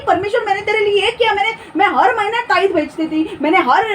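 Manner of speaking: hammed-up anxious self-justifying plea; pleading believer. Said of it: "और तब तुम बोलोगे कि".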